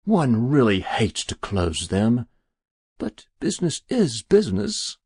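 mildly regretful, resigned; with a sigh. Acted. Stranger excusing closing the account, sighing. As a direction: feign reluctance over the duty. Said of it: "with a sigh".

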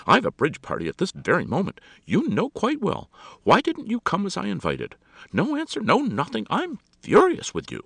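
high, loud, furious scolding; hammed-up indignant hostess; impatient. A narrator's reading. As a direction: berate the caller without patience. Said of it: "she broke in impatiently".

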